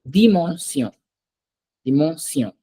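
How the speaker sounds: "Dimension" with a soft d and nasal vowel; careful French "Dimension", soft dental d. Shown as a demonstration. Teacher modelling the French word for student, soft D. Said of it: "a softer one".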